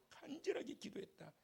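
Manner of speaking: whispered 간절하게 기도했다 with no voice; hushed whispered testimony. Retold or imitated. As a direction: breathe the words like a secret. Doctor's testimony echoed softly.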